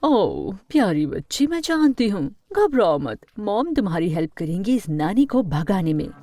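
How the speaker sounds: indulgent, comforting coo; soothing mother. Acted. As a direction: reassure a dear child. Mother soothing and scheming with daughter. (दिलासा देती माँ)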